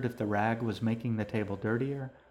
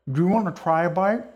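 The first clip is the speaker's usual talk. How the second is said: put-on young girl voice; 8 semitones higher, 9 dB louder than usual. A narrator's reading. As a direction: gush like a happy kid. Girl offers her brother food.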